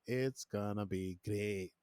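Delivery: slow, half-hearted Irish lilt; badly faked Irish, drawn out; attempted Irish accent. Shown as a demonstration. Promoting the accent to listeners, shaky Irish attempt. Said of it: "for my Irish accent".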